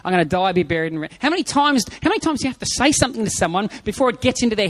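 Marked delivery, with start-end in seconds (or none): 0.0-1.1 repeating Jesus. Retold or imitated. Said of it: "how many times did Jesus tell them".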